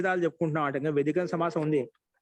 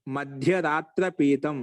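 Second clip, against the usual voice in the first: slow recitation; much slower than usual. Shown as a demonstration. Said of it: "teacher recites compound form".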